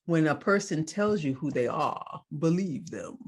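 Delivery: lightly imitated poet's delivery; a measured, quotable pronouncement, lightly put on; a hint of a famous poet reciting; Maya Angelou impression. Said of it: "Was that a good Maya".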